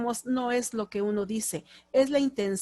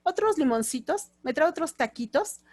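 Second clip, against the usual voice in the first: sweet diminutives; 5 semitones higher than usual. Shown as a demonstration. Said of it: "hablamos con diminutivo".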